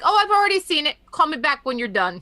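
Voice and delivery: mother's reply. Retold or imitated. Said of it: "and she's like".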